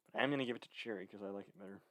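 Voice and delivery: slightly winded from the stairs; a bit breathless, fast; out of breath. Real, not acted. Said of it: "A little out of breath".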